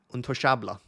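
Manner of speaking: Untouchable said the French way, untouchable; French accent. Shown as a demonstration. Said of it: "let me try and do my French accent".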